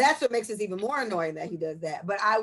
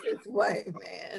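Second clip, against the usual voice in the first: laughing; 5 dB quieter, much slower than usual. Real, not acted. Echoing with laughter.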